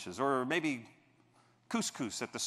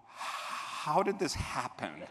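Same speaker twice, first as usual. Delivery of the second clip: slow, laughing disbelief; dazed laugh; 4 dB quieter, much slower than usual. Retold or imitated. Buyer leaving the shop, slow laughing disbelief. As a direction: laugh it out slowly, stunned. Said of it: "and go".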